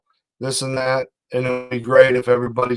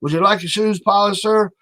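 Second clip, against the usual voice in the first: higher, eager-to-please "sir" voice; mock servile old man; 5 semitones higher than usual. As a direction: play an overly polite old man fawning over a passer-by. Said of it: "he's like".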